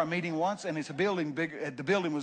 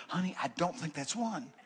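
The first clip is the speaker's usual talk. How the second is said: gentle; 5 dB quieter than usual. Retold or imitated. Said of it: "say to her".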